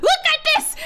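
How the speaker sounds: loud taunt. Real, not acted. Taunting again.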